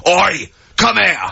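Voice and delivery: mock shout. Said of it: "You can go".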